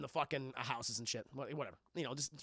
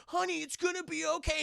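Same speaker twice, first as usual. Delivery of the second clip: mock soothing; 11 semitones higher than usual. Husband soothing wife.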